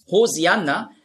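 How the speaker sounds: "Hosianna" said with a clear s; Greek-style "Hosianna", s instead of sh; Greek pronunciation. Shown as a demonstration. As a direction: give "Hosianna" an s, no sh. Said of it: "das ist die griechische Aussprache".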